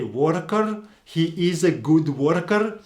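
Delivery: "worker" with a rolled Slavic R. Shown as a demonstration. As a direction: roll the R in "worker" hard, Eastern European style. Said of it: "really roll those R's".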